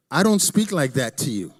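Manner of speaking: hammed-up "who, me?" protest; mock indignant denial. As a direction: act out a defensive husband. Acted quarrel with his wife.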